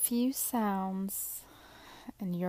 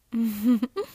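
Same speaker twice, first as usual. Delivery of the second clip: naughty giggle; 9 dB louder than usual. Acted.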